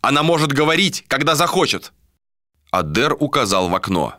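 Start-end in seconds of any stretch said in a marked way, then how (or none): 0.0-1.9 higher, emphatic voice; indignant objection. A narrator's reading. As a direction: defend her right to speak. Al-Khara objecting. (возмущённо, с напором)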